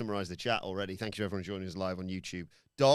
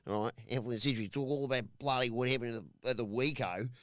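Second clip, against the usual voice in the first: half-hearted Aussie bloke; lightly done Australian accent. Pretend. Host introducing the podcasts in a mild mock Australian accent. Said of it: "The accent has gone to his brain".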